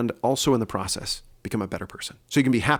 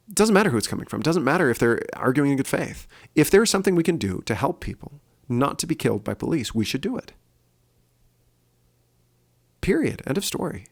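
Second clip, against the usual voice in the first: emphatic; 5 semitones higher than usual. Real, not acted. Emphatic closing argument.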